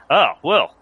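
put-on booming bluff Australian accent. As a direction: play the big Australian professor, booming. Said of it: "He laughs at my accent".

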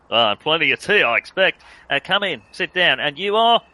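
hearty bluff Aussie voice; booming Australian professor. Acted. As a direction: boom it out like a big bluff Aussie. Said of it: "very deep, booming voice".

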